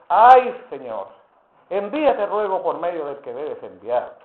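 un "Ay" agudo y fuerte, luego un ruego lento; súplica lastimera. Retold or imitated. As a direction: ruega despacio que mande a otro. Moisés suplicando a Dios. (Moisés ruega a Dios que envíe a otro, quejumbroso y lento)

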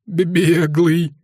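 a frightened stammer near tears; stammering soldier close to crying; stammering plaintive. A narrator's reading. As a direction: stutter the first sound, drawn out and pleading. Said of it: "слегка заикаясь, протянул жалобным голосом".

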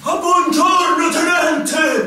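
loud, high hail across the yard; hearty greeting called out. Acted. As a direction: call out your hello to the lieutenant. Calling out a greeting.

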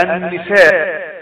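"النساء" drawn out as an-nisaa, l absorbed into n; slow "النساء" with a held double n and no l; merged lam. Shown as a demonstration. Teacher gives students an example word, lam merged into noon. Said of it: "فأضغمنا هنا اللام في النون".

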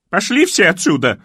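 sudden high, loud shriek. A narrator's reading. Old lady shrieking at the gawking kids. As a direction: scream them all off the yard. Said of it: "вдруг взвизгнула Тереза Васильевна".

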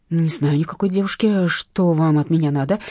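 frantic panicked cry; hysterical shout. Acted. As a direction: yell it out in panic. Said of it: "истерично закричал Герман". (истеричный крик)

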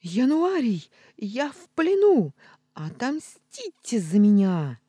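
loud high cry from the chest; hammed-up cry for revenge; dramatic shout. Trapped cat cries out to the ghost for revenge, loud and high. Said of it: "человеческий крик".

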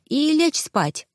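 yawned out, slow and high; sleepy yawn. Acted. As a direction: let a yawn swallow the words. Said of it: "сонно зевнула я".

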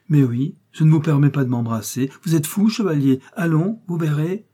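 acted agitated scolding; flustered protest. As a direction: fend off an embrace, voice lifting. Countess fends off chevalier's embrace.

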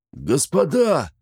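high, slow roaring shout; drunken bellow. A narrator's reading. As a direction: bellow it across the tavern. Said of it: "заорал во всю свою лужёную глотку".

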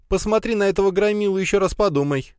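high squeaky voice. Acted. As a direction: squeak out a frantic warning. Лея keeps protesting, squealing. (высокий писклявый голос)

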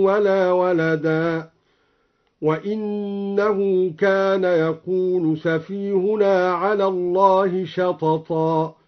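وإنه and وإنا with kasra on the hamza, wa-innahu; slow Quranic recitation, each وإنه with i; al-Duri reading with inna. Shown as a demonstration. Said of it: "قرأ الدوري بكسر الهمزة".

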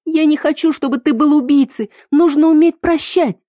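high, loud, urgent pleading; being dragged away, she cries out to him; desperate plea. Acted. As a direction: beg him to forgive instead.

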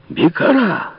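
high furious calling of a name; furious shout. A narrator's reading. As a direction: yell the name in rage. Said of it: "кричали разъярённые беглецы".

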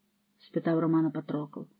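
ordinary delivery

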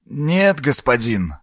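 put-on creaky, rasping old man's reply; vocal fry all through the words. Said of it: "ужасно скрипучим голосом".

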